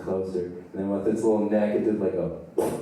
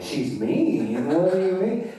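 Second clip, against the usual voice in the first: climbing high in disbelief; incredulous echo; 10 semitones higher, 3 dB louder, slower than usual. Acted. Teenager questioning his friend's goose warning, incredulous echo. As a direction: echo it, then shoot up in pitch.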